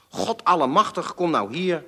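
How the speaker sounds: hoog en luid uitgeroepen; vader schreeuwt. A narrator's reading. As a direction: roep het geërgerd de gang door. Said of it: "schreeuwde mijn vader". (geërgerd geschreeuwd, hoog en luid)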